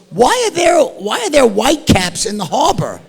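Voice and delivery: wife's question jumps high, then shouts on; imitating an alarmed wife yelling. Wife spots whitecaps and yells to the group in alarm.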